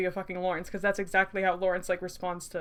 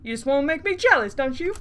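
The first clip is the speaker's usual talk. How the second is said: bad British accent, higher pitch; hammed-up British accent, pitched up; 4 semitones higher, 5 dB louder than usual. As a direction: put on a dodgy British accent. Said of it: "he's gonna have a British accent".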